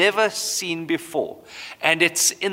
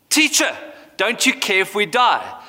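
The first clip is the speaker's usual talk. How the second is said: mock shout; 5 semitones higher than usual. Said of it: "That's the question that they shout at him".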